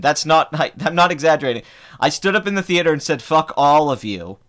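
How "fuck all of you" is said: slow, emphatic retold curse; retold yell. Moviegoer retells cursing the theater, emphatic mock yell. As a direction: draw out each word as a remembered yell. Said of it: "and I yelled it".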